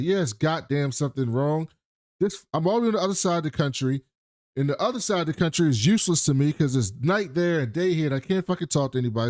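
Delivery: retold angry rant, rushed; Tim pissed off. Man ranting about being across the country, pissed off. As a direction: rattle off a worked-up complaint. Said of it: "Tim comes in pissed".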